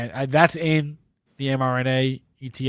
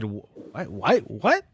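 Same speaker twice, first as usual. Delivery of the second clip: incredulous disbelief; 7 semitones higher than usual. Retold or imitated. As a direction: act stunned at the idea. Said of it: "I would have said".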